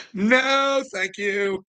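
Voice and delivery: high, sing-song "No, thank you"; high mock polite refusal. Refusing the monthly shot, high mock polite. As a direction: turn it down in a squeaky polite voice. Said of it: "refusing the doctor's offer".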